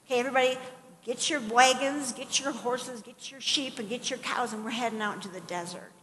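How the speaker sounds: lightly acted trail boss rounding everyone up; mock rallying call. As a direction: rattle off orders to a crowd. Acting out rallying a town to move.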